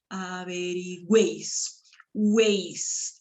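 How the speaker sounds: averigüéis slow, then weis isolated as one glide; triphthong in one syllable. Shown as a demonstration. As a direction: stretch averigüéis and single out weis. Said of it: "han sido pronunciados en una misma sílaba". (averigüéis lento, con weis en una sola sílaba)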